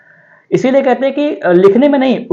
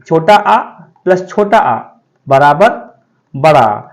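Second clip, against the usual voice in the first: slow spelled-out sum; 2 semitones lower, slower than usual. Shown as a demonstration. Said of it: "अब देखो".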